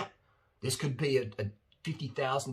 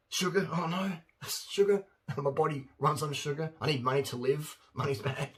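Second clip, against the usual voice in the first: higher pitch, laughing through fake fear; mock dread; 5 semitones higher than usual. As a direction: ridicule a silly phobia in a pretend-scared voice. Mocking fear of sugar.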